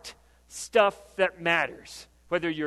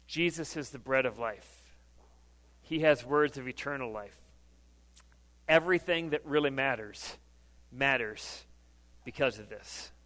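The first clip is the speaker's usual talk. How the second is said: soft, hushed preaching; 6 semitones lower, 5 dB quieter than usual. Acted. Preacher hushing the congregation to a soft, reverent tone. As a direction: drop the voice low and soft, almost confiding. Soft intimate sermon passage.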